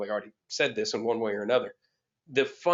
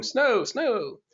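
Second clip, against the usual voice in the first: restrained, high mock shout; mock yell; 11 semitones higher than usual. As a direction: imitate passengers calling out, pitched well up. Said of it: "people on the bus started yelling".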